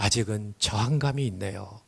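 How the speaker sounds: very low, deep register. Retelling a literary man's reply to an invitation, in a low, deep voice. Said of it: "낮은 중저음으로".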